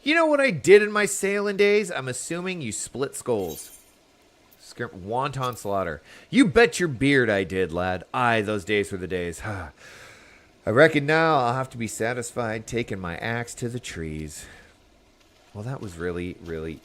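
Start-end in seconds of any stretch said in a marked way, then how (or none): 0.0-3.8 put-on loud, high boastful old sea dog; old sailor. Old sailor boasting of sailing days. 6.3-14.5 put-on old sailor.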